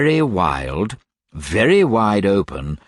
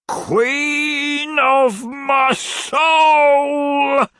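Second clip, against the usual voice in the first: high, very slow, swooning cry; lovesick old gentleman; 7 dB louder, much slower than usual. A narrator's reading. Old gentleman wooing Mrs Nickleby, swooning. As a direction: croon it like a mad suitor. Stranger character voice.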